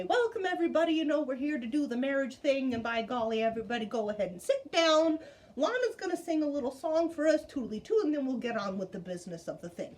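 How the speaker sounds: a hint of a jolly country preacher; folksy preacher dad. Imitating Preacher Daddy.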